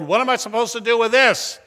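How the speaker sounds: retold grumble at being handed a ticket; lightly acted grumbling complaint. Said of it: "the man grumbled".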